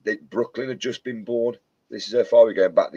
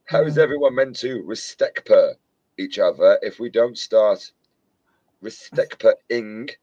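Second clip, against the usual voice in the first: film quote; 3 dB louder than usual. Retold or imitated. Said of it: "I'll quote that film all night".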